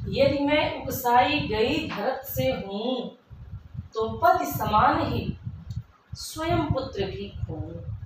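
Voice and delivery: slow, measured poem reading; deliberate recital with lengthened words; verse recitation. Acted. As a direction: recite the couplet line by line, drawn out.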